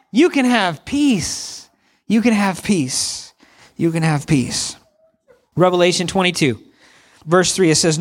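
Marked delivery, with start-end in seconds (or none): 0.1-4.8 reassuring refrain. Real, not acted. Repeated refrain, slowing and falling.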